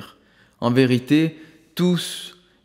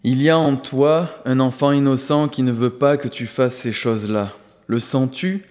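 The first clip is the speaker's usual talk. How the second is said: gentle and assured. Acted. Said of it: "poursuivit Prabhayat avec douceur et assurance".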